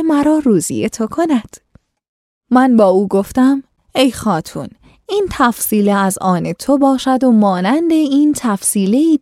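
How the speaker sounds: measured, formal storytelling read; classical story reading. A narrator's reading. Host reading an old tale to listeners, formal narration.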